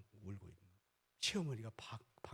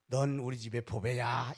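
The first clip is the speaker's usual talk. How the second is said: tender words; 3 semitones lower, 3 dB louder, slower than usual. Shown as a demonstration. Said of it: "이렇게 해보세요".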